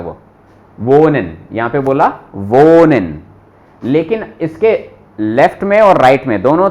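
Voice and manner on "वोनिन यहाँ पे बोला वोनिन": वोनिन said with the h silent. Shown as a demonstration. Teacher models silent h in वोनिन. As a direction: say वोनिन dropping the h. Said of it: "silent हो जाता है".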